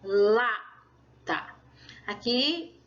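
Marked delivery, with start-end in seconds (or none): 0.0-1.5 "lata" split, strong LA and lighter TA; stress on first syllable. Shown as a demonstration. Teacher pointing out the strong syllable, "lata" stressed on LA. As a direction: separate "lata", putting the force on LA. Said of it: "a sílaba forte é lata".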